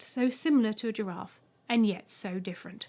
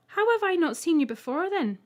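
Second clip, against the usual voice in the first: sceptical; 8 semitones higher, 6 dB louder than usual. A narrator's reading. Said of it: "Ethel asked, sceptically".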